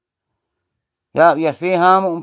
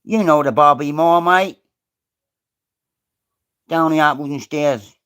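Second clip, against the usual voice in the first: mock London accent; 3 dB louder than usual. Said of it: "I am from London".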